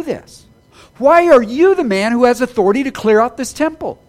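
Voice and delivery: loud, indignant questioning; challenging demand. Retold or imitated. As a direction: demand it like an outraged official. Preacher voicing challenging leaders.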